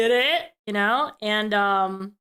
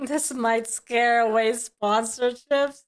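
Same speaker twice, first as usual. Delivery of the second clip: mocking repeat; slower than usual. Mocking the clip's line, laughing.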